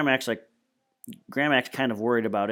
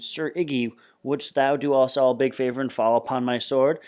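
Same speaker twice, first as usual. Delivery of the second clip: hammed-up knightly speech, a bit louder; mock knight; 3 semitones higher, 4 dB louder than usual. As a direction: strut it like a pompous knight. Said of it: "Freak is strutting around".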